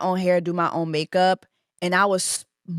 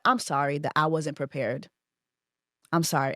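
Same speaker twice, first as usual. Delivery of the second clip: quiet apology; 5 semitones lower, 5 dB quieter than usual. Retold or imitated. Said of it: "She said".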